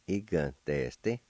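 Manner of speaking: "Giganteste" joined up, still measured; blended word demo. Shown as a demonstration. Teacher pronouncing word number one for learners, syllables joined up. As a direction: run the syllables of "Giganteste" together carefully. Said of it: "now I'll pronounce these words".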